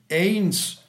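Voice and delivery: little clock striking the hour; watch chiming. A narrator's reading. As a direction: chime it out like a small watch. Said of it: "sagten die Uhren der Knaben".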